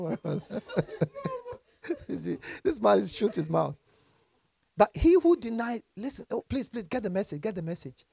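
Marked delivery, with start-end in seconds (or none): 6.0-8.0 pleading. Real, not acted. Pleading with congregation.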